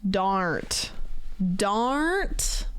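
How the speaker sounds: "Darnt" with a long open ah; attempted Australian vowel. Streamer practising friend's accent, "Darnt" in strained Australian vowel. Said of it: "you would think that I could do it".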